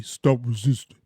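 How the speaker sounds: lightly voiced cop order; a hint of a cop barking; Truth Teller's line. Quoting Truth Teller's cop order, lightly voiced. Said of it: "as Truth Teller say".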